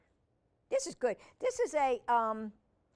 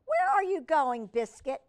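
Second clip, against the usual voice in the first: loud, raised-pitch questioning call; calling after puppy; 5 semitones higher, 9 dB louder than usual. Acted. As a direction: call out after a straying pup. Girl calls after puppy.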